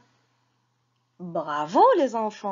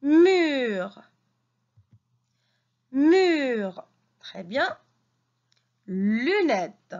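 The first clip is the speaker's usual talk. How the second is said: reading lesson voice. Acted. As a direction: sound out each syllable for little ones. Teacher reading lesson to children.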